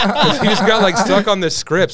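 talking through laughter; laughing while telling. Real, not acted. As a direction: explain it while still laughing.

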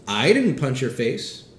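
"didn't" pushed hardest, a firm denial; stress on DIDN'T. Shown as a demonstration. Pastor showing the congregation a stressed denial. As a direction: lean on "didn't" in "I didn't punch your face". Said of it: "all with different meanings based on the way I say it".

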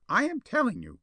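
high, shrill insistence; insist, voice climbing. A narrator's reading. Minister insisting to Spawn, voice rising shrilly. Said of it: "His voice rose shrilly".

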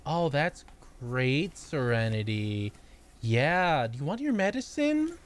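slow, patronizing sweetness; mock condescending nurse. Nurse humoring Serenity, slow patronizing coo. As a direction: humor the patient slowly.

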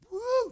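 high quick "woo"; imitated whoosh. Preacher picturing an easy tailwind, playful whoosh. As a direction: whoosh it like a gust.

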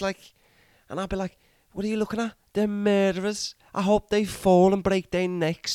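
a put-on accent drifting Welsh and Scottish; wandering Irish-ish accent. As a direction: play a ranting character in a shaky put-on accent. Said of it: "Your accent went very Welsh".

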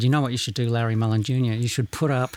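lightly put-on Irish accent for a quote; bogus Irish accent. Podcaster quoting the drummer's father, mild bogus Irish accent. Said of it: "bogus Irish accent that, that I would put on".

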